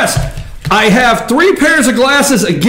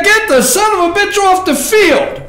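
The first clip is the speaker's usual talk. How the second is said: imitating Trump; 9 semitones higher than usual. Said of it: "Trump said".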